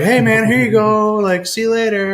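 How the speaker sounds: high, eager and loud; excited. Retold or imitated. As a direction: gush with excitement. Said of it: "I was like".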